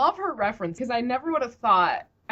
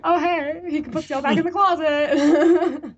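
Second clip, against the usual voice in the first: higher, louder, slowed by laughter; laughing joke voice; 8 semitones higher, 6 dB louder than usual. Retold or imitated. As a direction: crack up mid-line while joking. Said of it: "I'm like".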